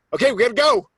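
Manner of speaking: high, loud instructor's yell; urgent shout. Retold or imitated. Instructor to first-time jumper in the plane, urgent shout. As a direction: yell it as a sudden urgent order.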